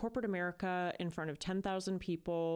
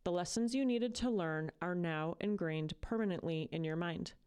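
measured, earnest affirmation read; inspirational reading. Acted. Host reading an inspiring passage to listeners, earnest.

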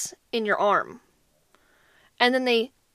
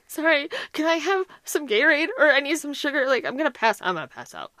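weak and tearful; 3 semitones higher than usual. Retold or imitated. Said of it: "I'm still like".

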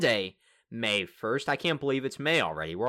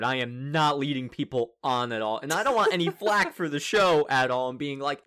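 ordinary talk

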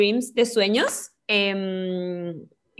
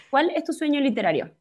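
question tune; 4 semitones higher than usual. Shown as a demonstration. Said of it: "Ahí sí te salió la entonación".

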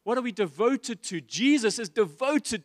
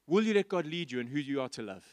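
"let" lightly stressed, said fast and softer; quick quiet repeat; 5 semitones lower, 4 dB quieter, faster than usual. Shown as a demonstration. Preacher repeating the question to his church, fast and soft. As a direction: rattle the repeat off quickly, dropping the volume.

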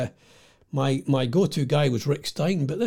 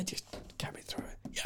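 breathless whispered aside; 19 dB quieter than usual. Retold or imitated. Punter muttering his order to the barman, whispered. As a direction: whisper it so no one hears.

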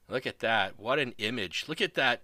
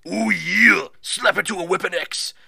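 louder, higher wrestler growl; lightly voiced wrestler promo; 6 semitones higher, 9 dB louder than usual. Streamer hyping the match in a wrestler's voice.

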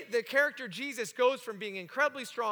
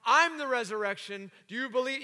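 firm, emphatic mock proclamation; in charge, profound; 4 dB louder than usual. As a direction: briefly imitate a commanding declaration. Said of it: "guy in charge".

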